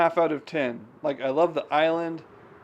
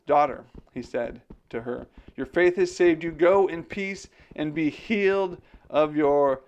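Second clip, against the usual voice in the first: emphatic, raised scripture reading; Bible reading aloud. A narrator's reading. Streamer reads the Bible story to viewers, expressive narration. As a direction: read the verses out clearly and expressively.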